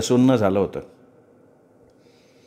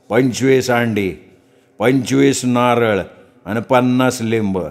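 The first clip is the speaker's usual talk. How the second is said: slow, drawn-out trance speech; possessed priest; slower than usual. Acted. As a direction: speak slowly as the goddess in him. Possessed priest lists demands. (घुमत बोलणारा भगत)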